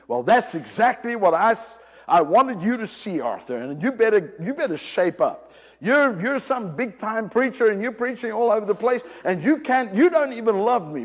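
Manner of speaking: stern rebuke. Retold or imitated. Preacher imagines the Lord scolding him, sternly.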